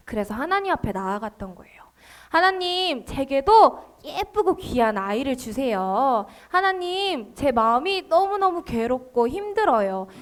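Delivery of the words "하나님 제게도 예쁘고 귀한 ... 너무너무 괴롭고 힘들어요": softly acted prayer of distress; mild tearful pleading. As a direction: plead gently, with a touch of sorrow. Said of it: "하나님 앞에 울면서 고백하고". (살짝 슬픔을 담은 간절한 기도)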